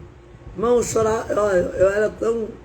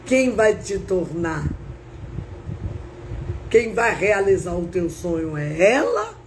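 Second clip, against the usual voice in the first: lightly voiced, measured divine challenge; voice of God; 2 semitones lower than usual. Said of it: "eu ouvi a voz de Deus".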